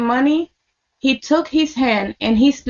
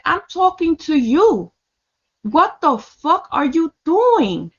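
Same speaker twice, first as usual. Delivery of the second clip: higher-pitched, emphatic challenge, no shouting; indignant retold confrontation; 3 semitones higher than usual. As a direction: confront him in disbelief, retelling it. Retold angry confrontation with the man.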